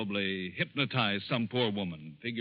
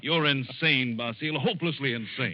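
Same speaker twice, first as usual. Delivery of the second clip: angry outburst; 2 semitones higher, 3 dB louder than usual. Acted. Calls Basile insane.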